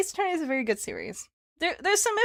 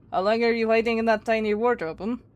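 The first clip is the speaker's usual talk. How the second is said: clumsy, bad, put-on Russian accent. Playing a captor who has found someone hiding in a wardrobe, bad Russian accent. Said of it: "Don't mind how bad my accent probably is".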